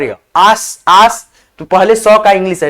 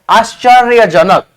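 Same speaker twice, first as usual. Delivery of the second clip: slow whole word; 3 dB louder, slower than usual. Shown as a demonstration. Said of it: "देखो".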